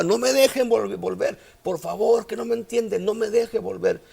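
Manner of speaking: preacher voicing a man begging not to be sent back; retold screams.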